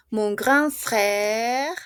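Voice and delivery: frère stretched very slowly, ending on the r; silent final e. Shown as a demonstration. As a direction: draw out frère with no final vowel. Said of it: "no se pronuncia".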